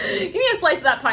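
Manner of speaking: high giggling request; laughing. Real, not acted. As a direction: laugh it out while asking. Laughing aside.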